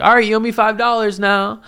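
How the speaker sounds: imitating her asking for payment; mock demanding. Retelling her demand for money.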